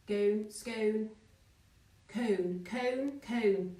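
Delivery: "Gone, scone, cone" drawn out as separate words to compare vowels; pronunciation demo. Shown as a demonstration. Teacher comparing how scone, gone and cone sound, pronunciation demo. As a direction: say "cone" slowly and singly, testing the vowel against "scone". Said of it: "You don't say gone".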